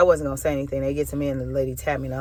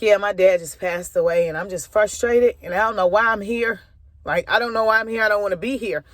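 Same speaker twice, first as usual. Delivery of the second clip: grieving, higher-pitched plea; choked-up frustration; upset; 5 semitones higher than usual. Real, not acted. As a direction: relive the hurt, voice raised in pitch. Reliving grief told to the lady.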